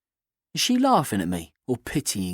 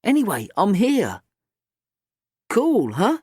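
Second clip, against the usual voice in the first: put-on higher, bright cheeky girl; 8 semitones higher than usual. A narrator's reading. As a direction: play the confident teenage girl. Kat voiced.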